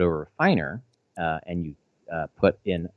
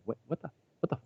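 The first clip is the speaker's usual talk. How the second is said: higher-pitched, softer stammered shock; retold stunned disbelief; 9 semitones higher, 6 dB quieter than usual. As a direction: act out dumbfounded, halting confusion. Retelling shock at stolen items.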